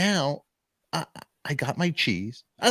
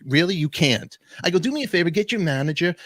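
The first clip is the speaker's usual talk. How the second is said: exasperated, higher-pitched demand; getting crazy; 6 semitones higher, 3 dB louder than usual. Retold or imitated. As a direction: retell a fed-up challenge to the clerk. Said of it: "I'm getting crazy".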